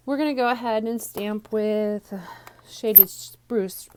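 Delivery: slightly winded voice; out of breath. Real, not acted. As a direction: speak a little out of breath. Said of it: "I'm a little out of breath".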